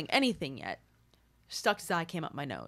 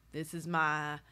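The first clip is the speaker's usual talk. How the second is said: imitating Southern; 3 semitones higher, 3 dB louder than usual. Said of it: "She's Southern".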